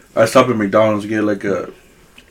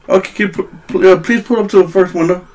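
higher-pitched drive-thru worker voice; lightly imitating a bored cashier; bored fast food cashier; 6 semitones higher than usual. Voicing the cashier.

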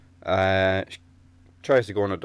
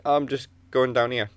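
Ned impression; 5 semitones higher, 5 dB louder than usual. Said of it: "in the Ned way".

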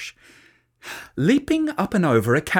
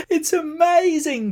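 much higher thrilled call; delighted; 14 semitones higher, 4 dB louder than usual. A narrator's reading. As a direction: shout with joy. Delighted slide ride.

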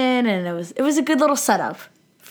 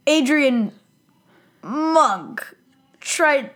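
mock shock; 6 semitones higher, much slower than usual. Imitating Stottlemyre's shocked reaction.

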